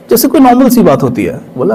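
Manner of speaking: ordinary talk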